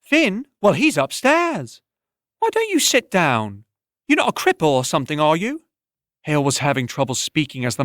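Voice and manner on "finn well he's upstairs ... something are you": tavern woman. Acted. Tavern woman confronts a boy in the doorway, blunt. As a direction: call out to the sick boy sharply.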